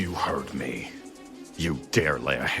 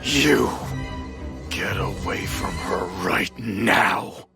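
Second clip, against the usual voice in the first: angry command. Acted. Confronting attackers near princess.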